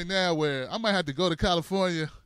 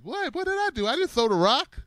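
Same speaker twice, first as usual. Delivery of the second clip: put-on high whiny kid denying it; innocent kid protest; 7 semitones higher than usual. Kid blamed for the rock, high whiny protest. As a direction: squeak it like a kid caught out.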